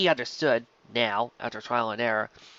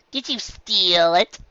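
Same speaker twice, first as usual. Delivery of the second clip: accusing filly; 7 semitones higher, 5 dB louder, much slower than usual. Acted. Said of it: "Diamond Tiara asked".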